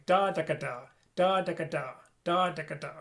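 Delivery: "ka" with the tongue back on the ridge; da ka tonguing. Shown as a demonstration. Teacher repeating the tonguing for students, clear "ka". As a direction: sing the rhythm with a crisp back "ka". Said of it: "You can hear the rhythm even better when I say it differently".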